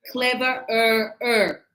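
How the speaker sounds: "cleverer" stretched slowly, both er endings sounded; drawn-out cleverer. Shown as a demonstration. Teacher showing a form she can't say, "cleverer" drawn out. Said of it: "I can't say".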